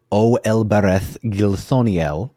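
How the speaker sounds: slow, measured verse reading; poem recitation. A narrator's reading. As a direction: recite the hymn line by line, unhurried. Recites the elves' song lyrics.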